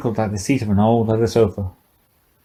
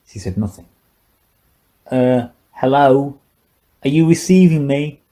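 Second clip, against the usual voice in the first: put-on higher, loose drunken old man's voice; drunk old scientist; 4 semitones higher than usual. Old scientist taunting the silent girl, tipsy and mocking.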